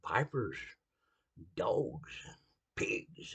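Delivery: hushed whisper on dogs and pigs; whispered insults. Real, not acted. Preacher listing Bible-era insults, whispering. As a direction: drop to a whisper for the ugly words.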